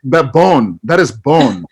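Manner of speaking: slow put-on foreign accent; Sebastian. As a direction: savour each word in a mock foreign accent. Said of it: "some other foreign language".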